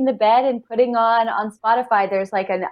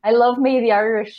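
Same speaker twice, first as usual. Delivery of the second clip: put-on Irish accent. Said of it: "my Irish accent".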